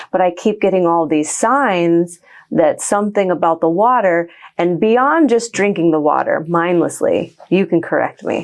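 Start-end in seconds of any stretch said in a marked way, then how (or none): 0.1-4.3 whisper. Real, not acted. Continues whispering.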